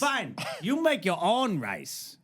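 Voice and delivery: put-on slow, high caricatured Asian accent; huffy prank caller's put-on Asian accent; mock Asian accent. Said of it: "you can't do an Asian accent".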